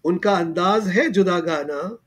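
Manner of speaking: measured poetry recital with lifted phrase ends; mushaira-style verse delivery; verse recitation. Acted. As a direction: recite the couplets line by line, pausing for appreciation. Host recites his verse.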